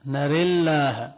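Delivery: نري said nere with the vowel leaning to e; imala on نري. Shown as a demonstration. Teacher demonstrating imala recitation, leaning the vowel. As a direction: tilt the long a of نري toward e, slow. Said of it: "بدل أن يقول نرى، يقول نري".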